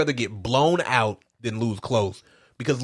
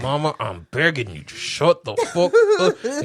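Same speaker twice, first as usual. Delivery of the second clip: mock pleading son; 2 semitones higher than usual. Son pleading with his mother.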